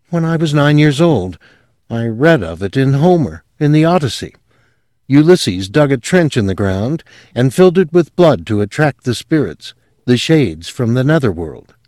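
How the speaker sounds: lightly voiced young woman, high and earnest; confessing her strange family with rising fervour; a hint of a girl gone dreamy. Sylvia voiced in story.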